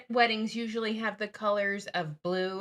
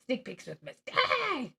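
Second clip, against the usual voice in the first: announcer voice; 3 semitones higher, slower than usual. Pretend. Announcing show title, slowly.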